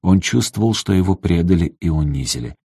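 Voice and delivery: ordinary delivery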